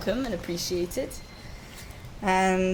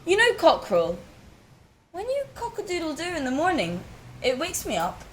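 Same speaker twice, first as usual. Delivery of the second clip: sincere thanks; 3 semitones higher, 3 dB quieter than usual. Acted. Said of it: "he looks down and he says".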